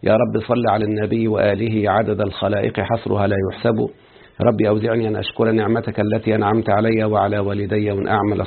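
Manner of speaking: steady formal Arabic recitation; opening invocation. Acted. Teacher opening a lecture with prayer, formal recitation. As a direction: recite the praise and prayers evenly.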